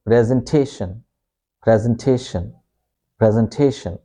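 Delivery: "presentation" as PREZ-en-TAY-shun; British short E opening "presentation", stress on TAY; British pronunciation. Shown as a demonstration. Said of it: "pronounce this E as it is in pen".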